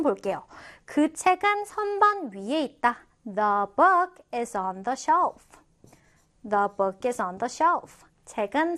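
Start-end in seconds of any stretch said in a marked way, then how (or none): 3.2-5.4 slow, word-by-word teacher reading; slow model reading. Shown as a demonstration. Teacher models an example about a book for learners, slowly. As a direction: space the words out, stretching "book".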